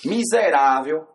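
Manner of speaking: drawn-out, emphatic mock scolding. Seller calls out the stingy customer, scolding. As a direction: stretch the insult out slowly for effect.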